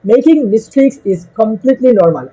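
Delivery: slow and steady, every word given weight; slow reassuring line. Shown as a demonstration. Teacher to nervous students, slow and reassuring. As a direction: say it slowly so they believe it.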